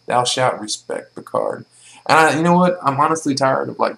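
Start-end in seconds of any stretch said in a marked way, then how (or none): 0.0-1.6 mock solemn decree. Mock commandment from a viewer.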